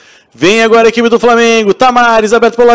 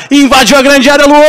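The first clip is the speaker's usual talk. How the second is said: explosive goal commentary; 5 semitones higher than usual. Real, not acted. Attack builds into a goal.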